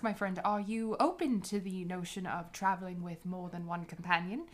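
courteous, formal adventurer voice; lightly voiced gracious diplomat, measured and polite; Helvetica's polite voice. Helvetica courting a travel partner, polite and formal.

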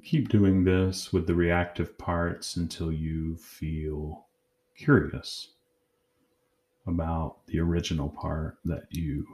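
calm, measured guided-meditation voice with long pauses; unhurried meditation leader, pausing between phrases. Acted. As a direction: guide them gently inward, leaving long silences.

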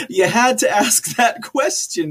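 laughs through the words, slowed and high; flustered laugh at an awkward question. Real, not acted. Caught off guard by viewer question.

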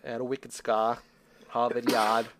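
put-on a weak, half-hearted Boston accent; terrible Boston accent. Podcast host riffing on the movie's Boston line, badly faked Boston accent. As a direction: toss off a lazy Boston accent, barely there. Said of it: "that's a terrible accent".

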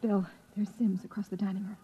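urgent soft whisper; wife warning her husband under her breath. Acted. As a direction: whisper so no one overhears. Wife warns in dining room.

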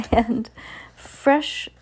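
witch's shout. Acted. Grand High Witch shouting at bald witches, harsh high cry. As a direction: fling the order out with disgust. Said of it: "she shouted".

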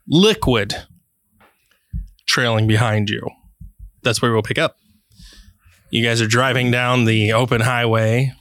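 calm storyteller's scene setting; game master narration. Acted. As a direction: set the scene for the players. GM sets the scene.

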